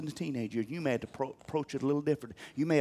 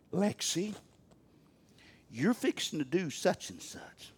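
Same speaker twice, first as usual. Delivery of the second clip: loving papa voice; 6 dB quieter, slower than usual. Retold or imitated. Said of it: "the loving papa voice".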